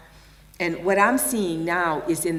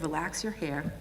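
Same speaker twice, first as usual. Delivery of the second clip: softly spoken; 7 dB quieter than usual. Retold or imitated. Midwife calming the pregnant women, softly spoken. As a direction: ease "Relax your hair." out gently and quietly. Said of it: "she started talking a little bit more softly".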